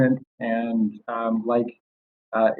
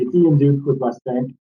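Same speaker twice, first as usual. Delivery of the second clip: muffled. Real, not acted. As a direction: voice muffled, as through a hand over the mouth. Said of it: "very muffled".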